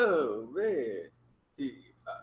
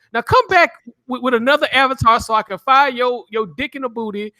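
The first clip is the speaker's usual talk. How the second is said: taunting; 4 semitones higher than usual. Real, not acted. Taunting a chat troll.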